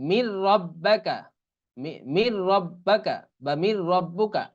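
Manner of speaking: slow model of মির রব্বাকা and মির রব্বুকা; মির রব্বুকা with no n, the r held; idgham into ra. Shown as a demonstration. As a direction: join মির to রব্বাকা on a doubled r. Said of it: "র আসলে কেমন হবে".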